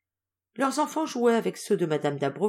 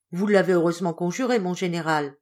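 cheerfully. Acted. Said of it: "dit gaiement Dérigny".

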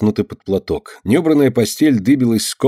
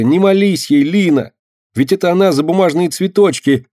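high, loud pleading cry; desperate cry; 8 semitones higher, 4 dB louder than usual. A narrator's reading. Girl begs Lina not to pray, crying out. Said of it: "в отчаянии крикнула мышка".

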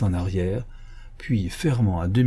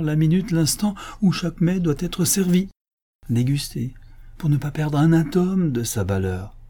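higher-pitched, emphatic explanation; earnest reciting; 4 semitones higher than usual. Acted. Majordomo relays the great man's rule to his master, earnestly. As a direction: lay down each point with conviction.

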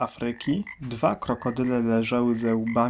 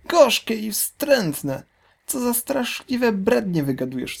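outraged exclamation; 10 semitones higher, 3 dB louder than usual. Acted. Big crocodile scoffing at the small one, loud and high. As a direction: scoff loudly at the nonsense. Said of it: "wykrzyknął olbrzymi".

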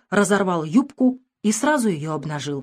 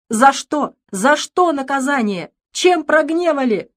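high, loud anguished wail; despairing lament; 7 semitones higher, 5 dB louder than usual. Acted. Father wails to God about his punishment, anguished. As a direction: cry out to heaven in grief.

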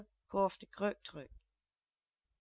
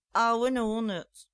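loud, slow drawn-out jeer; loud taunt; 3 semitones higher, 8 dB louder, slower than usual. Acted. Girl keeps teasing the old man, loud slow jeer. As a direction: yell it slowly to tease him. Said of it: "repeteerde ze nog een paar keren".

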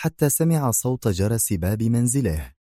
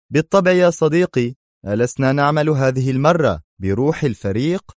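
higher, louder friendly voice; smiling reassurance; 5 semitones higher, 4 dB louder than usual. Acted. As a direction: reassure him with a smile. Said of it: "وهو يبتسم قائلا".

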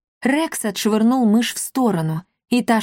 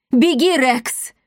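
louder, slow commanding roar; growled order; 5 semitones higher, 3 dB louder, slower than usual. A narrator's reading. The king orders Rex to run, urgent growl. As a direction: bark the order to flee. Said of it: "прорычал король".

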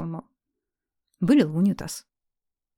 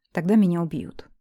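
ordinary delivery

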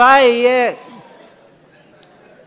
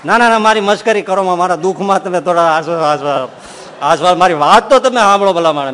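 mock pleading protest; 6 dB louder than usual. Complaining man pleads with swami.

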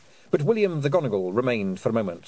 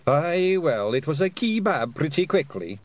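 high, loud rough Scottish pixie; indignant little Scottish warrior; Feegle voice; 6 semitones higher, 3 dB louder than usual. A narrator's reading. Daft Woody speaking.

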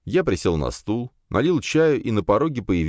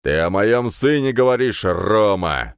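loud, higher yell; shouting; 4 semitones higher, 4 dB louder, slower than usual. A narrator's reading. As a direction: yell so the walls shake. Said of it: "закричал начальник С Б".

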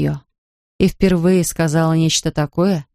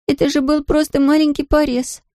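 daughter's protest; 9 semitones higher than usual. A narrator's reading. Daughter downplays her cut.

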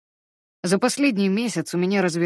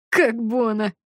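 high squeal through laughter; 5 semitones higher, 4 dB louder, slower than usual. Acted. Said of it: "взвизгнул от смеха Шуйлер".

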